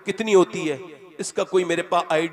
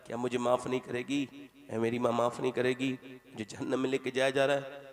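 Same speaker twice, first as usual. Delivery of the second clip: softer, hushed plea for forgiveness; hushed begging son in hell; soft pleading son; 5 dB quieter than usual. Acted. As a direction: beg her quietly, almost breaking. Son pleads to his mother.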